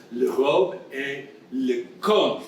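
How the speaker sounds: "con" said slowly with a rising, unsure tune; "Le robe et le con" read slowly, landing on "con" with a questioning rise; botched French word. Retold or imitated. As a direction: nurse fumbling "con" for the word gown. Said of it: "she's trying to say gown, but she doesn't say it very well".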